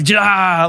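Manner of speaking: long, hammed-up screamo cry; mock screamo scream. Preacher imagining the demons' reply, mock screamo scream. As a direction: imitate a screamo singer, held out. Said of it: "was it like Screamo?".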